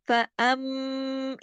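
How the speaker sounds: फअम ending in a long steady nasal hum; slow sustained फअम; full ghunnah. Shown as a demonstration. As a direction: hold the m of फअम through the nose. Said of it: "अकमल गुन्ना".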